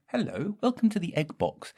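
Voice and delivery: high chirpy greeting; high welcome. Acted.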